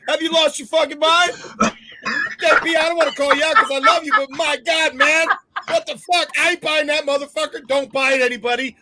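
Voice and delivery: loud, high exasperated rant; incredulous ranting at a friend. Real, not acted. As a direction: tear into him, fired up. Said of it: "That was a good rant".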